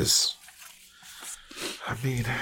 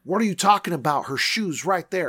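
high, rushed protest; frantic disbelief; 8 semitones higher, 3 dB quieter than usual. Acted. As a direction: insist in alarm to an officer who dismisses you. Disputing officer, frantic about woman.

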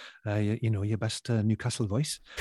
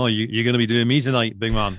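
Alan Hansen; 7 dB louder than usual. Retold or imitated. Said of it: "he said".

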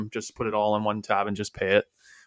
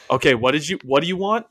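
impatient cashier; 4 semitones higher, 3 dB louder than usual. Retold or imitated. Retelling cashier returning on intercom.

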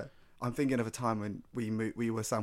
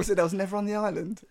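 Stephen Hawking impression; 8 semitones higher than usual.

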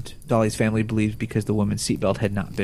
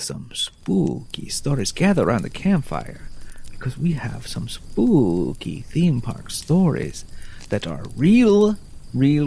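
a hint of vampire, drawing out "spooky"; light vampire voice. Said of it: "the vampire voice when you start".

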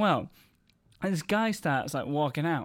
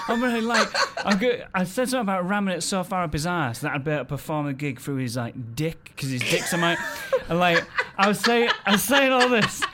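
louder, laughing through the retelling; 3 semitones higher, 4 dB louder than usual. Real, not acted. Comic laughing while telling friends about the gig. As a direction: crack up as you tell it. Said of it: "laughing while retelling".

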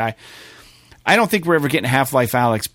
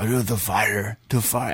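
put-on low, half-hearted Russian accent, quietly; a weak try at a Russian narrator, trailing off; a fumbled Russian accent, lower and softer; mock Russian voice; 6 semitones lower, 6 dB quieter than usual. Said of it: "this Russian voice".

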